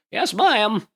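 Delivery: high, quick eager yes; eager attendant. Acted. Young attendant answering his boss, high and eager. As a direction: snap to attention like a young aide. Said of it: "Willie goes".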